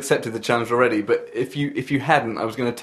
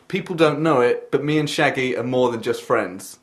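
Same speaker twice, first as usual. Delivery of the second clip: slow dictation. Shown as a demonstration. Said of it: "the phrase is".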